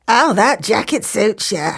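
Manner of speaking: sly flattering compliment; scheming tailor flattering. Acted. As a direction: flatter with a crooked smile. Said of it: "with a sly, crooked smile".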